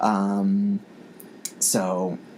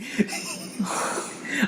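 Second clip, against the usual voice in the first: high breathy laugh; 5 dB quieter than usual. Real, not acted. Laughing at her own mistake.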